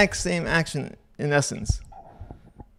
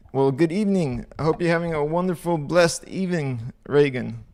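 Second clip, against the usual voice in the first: a light African accent creeping in; slight African accent. Real, not acted. Streamer says good evening to viewer in Kenya, slight African accent. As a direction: greet with a hint of African accent. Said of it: "like an African accent in my, uh, tone".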